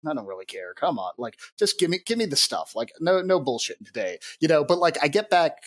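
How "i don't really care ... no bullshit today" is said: lightly voiced gruff, bitter woman; a hint of curt, bitter impatience. Game master trying out junk seller Alessa, mildly gruff and bitter. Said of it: "what was her gruff and bitter voice".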